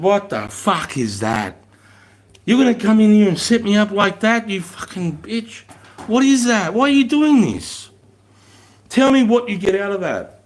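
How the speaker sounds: mock furious dressing-down, rising to a shout; retold angry rant. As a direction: tear into the recruit, voice climbing high and loud. Corporal berating recruit, retold.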